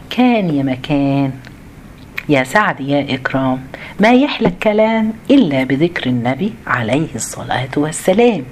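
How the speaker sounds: fireside storytelling. Retold or imitated. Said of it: "كانت بيبتدوا يقولوا إيه؟".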